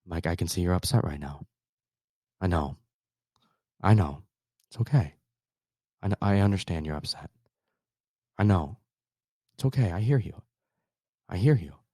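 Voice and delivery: a hint of a smooth radio DJ, calm and soothing; late night DJ voice. Dad soothing his screaming daughter, lightly voiced late night DJ. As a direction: talk her down gently, like a late night radio host. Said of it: "my late night F M D J voice".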